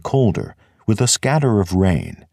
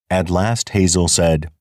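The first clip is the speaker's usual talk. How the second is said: usual speaking voice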